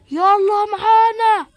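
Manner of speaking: a police officer forcing the suspect out; slow commanding shout. Acted. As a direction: drag out each word of the command. Police order arrest.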